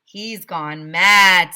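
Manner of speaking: loud, slow outraged remark; indignant. A narrator's reading. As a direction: declare it in disbelief. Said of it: "said Mister Brad".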